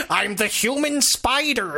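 slow, stagey self-introduction; mock movie quote. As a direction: announce it grandly, stretching the words. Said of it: "it's like".

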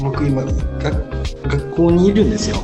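echoing room sound; talking in a hall with echo; cathedral echo. Real, not acted. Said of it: "なんかすごい声が反響して". (反響する声)

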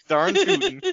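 put-on loud, high country-accent exclamation; hammed-up country agreement. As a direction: whoop it in a mock country accent.

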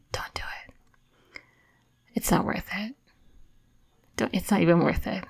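hushed, whispered warning; soft, calming near-whisper; very calm intervention. Retold or imitated. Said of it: "very calm".

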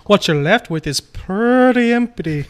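mock British tough-guy voice, lightly done; shitty put-on British accent. Partner mocking the other in a bad British accent. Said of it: "The last shitty accent I can pull out".

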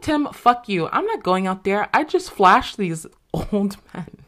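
exasperated, half-laughing protest; indignant refusal. Retold or imitated. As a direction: refuse point-blank in retold outrage. Retold outburst at coworker.

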